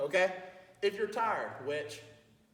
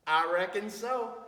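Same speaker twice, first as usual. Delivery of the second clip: RECKON SO drawn out lazily; slow and groovy. Shown as a demonstration. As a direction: stretch "reckon so", go with the flow. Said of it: "it's a very slow, kinda groovy word".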